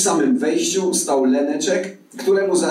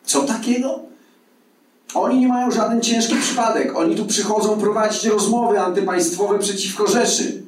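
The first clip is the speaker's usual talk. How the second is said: outraged officer, pitch raised high without much volume; high-pitched mock yell; 9 semitones higher than usual. A narrator's reading. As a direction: squawk the accusation indignantly, far above narration. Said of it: "odsunął się i wrzasnął". (oburzony, piskliwy wrzask)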